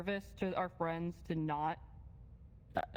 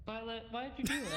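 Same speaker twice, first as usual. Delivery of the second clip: stern, let-down father; disappointed dad voice; 3 semitones higher than usual. Pretend. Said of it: "Not the disappointed dad voice".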